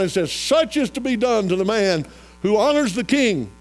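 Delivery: high, loud, ringing sermon delivery; full-force preaching. Real, not acted. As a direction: preach it out to the whole congregation.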